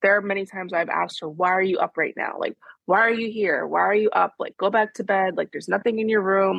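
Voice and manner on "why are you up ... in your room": mildly cross retold scolding; light imitation of a fed-up parent's questions; mad, complaining. Mother re-enacts complaining to her waking daughter, mildly mad. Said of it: "which is to be mad".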